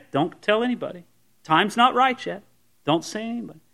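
softly voiced request for secrecy; understated, confidential hush; hushed instruction. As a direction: quietly caution someone to keep it to themselves. Jesus telling healed person to keep secret.

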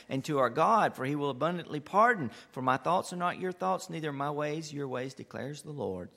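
steady, solemn reading of the verse; scripture reading. Acted. Reads Isaiah passage aloud.

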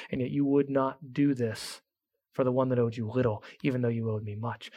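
a grieved lord speaking gently to his servant; fading to a near hush by the end; quiet sorrowful master. Acted. Master's tender rebuke, fading softer.

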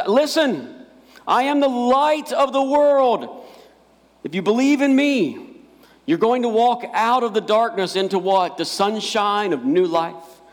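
high, ringing proclamation to the crowd; booming voice. Retold or imitated. Jesus announcing to the crowd at the feast, booming. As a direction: boom it out like a preacher. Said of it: "Jesus in this booming voice".

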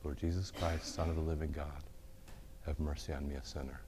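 soft, hushed prayer fading away; sleepy whispered-down prayer; falling-asleep prayer. Shown as a demonstration. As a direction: murmur it as if drifting to sleep. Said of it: "say it until you fall asleep".

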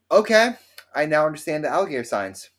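high, loud sudden realization; startled realization. Retold or imitated. Telling friends how he saw seven alligators, a high, loud sudden realization. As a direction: hit the okay high and loud, dawning panic.

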